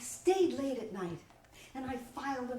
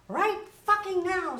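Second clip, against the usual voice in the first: retold demand; 9 semitones higher, 7 dB louder than usual. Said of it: "she'd say".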